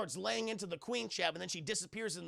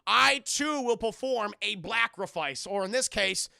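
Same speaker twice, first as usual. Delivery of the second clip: loud, solemn hammed-up vow; loud mock-solemn sacrifice speech; grand declaration; 2 semitones higher, 9 dB louder than usual. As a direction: proclaim it like a noble hero. Dad declares his sacrifice.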